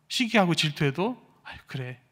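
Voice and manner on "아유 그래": easygoing shrug. Retold or imitated. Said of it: "너무나도 편안하게".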